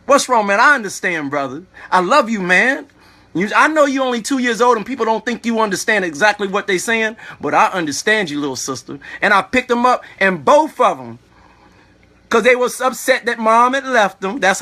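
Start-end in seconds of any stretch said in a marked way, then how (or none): 0.1-9.0 retold soothing of a crying toddler, dropping low at the end; tender reassurance. Man comforting crying two-year-olds he picked up, tender reassurance. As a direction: gently reassure a small child, voice sinking lower.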